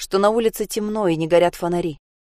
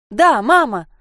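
loud, high joyful yell; girl shouting her answer to the grandmother; shouting yes; 6 semitones higher, 8 dB louder, slower than usual. Acted. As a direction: yell it straight back. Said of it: "закричала Саша".

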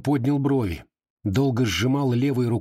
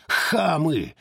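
shouted insult; 6 semitones higher than usual. Acted. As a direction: scream хамы at him.

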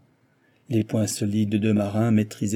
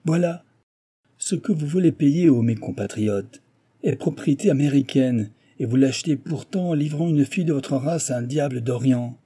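raised, emphatic declamation to a crowd; indignant boastful engineer; 3 semitones higher, 4 dB louder than usual. Acted. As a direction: denounce the thief and claim the credit. Engineer's triumphant denunciation and boast.

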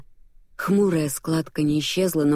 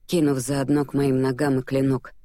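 plain reading voice

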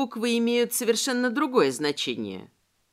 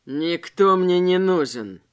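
low, louder hissing robber; hissed; 3 semitones lower, 5 dB louder, slower than usual. A narrator's reading. Second robber refusing any protector, low hiss. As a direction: spit the words through the teeth. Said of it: "прошипел второй грабитель".

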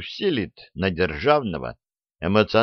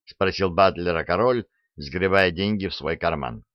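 plain reading voice

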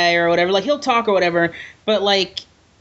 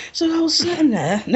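talking through laughter, higher; laughing; 7 semitones higher than usual. Real, not acted. Podcaster repeats the botched line, laughing. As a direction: giggle through the words. Laughing at own failed accent.

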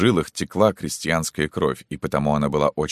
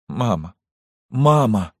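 second call rising high and louder, breaking; tearful plea; 7 semitones higher, 3 dB louder, slower than usual. Acted. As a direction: cry out to your mother through tears. Daughter sobbing to her mother. (плача, зовёт маму)

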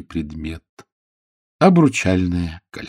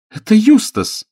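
very high, loud shriek; horrified cry; 6 dB louder than usual. A narrator's reading. Lady recognises the dead Eustace, shrieking high. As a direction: shriek the name in horror.

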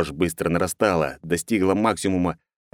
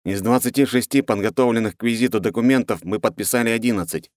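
higher, timid report; nervous young counsellor; 5 semitones higher than usual. Acted. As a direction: report like a scared official.

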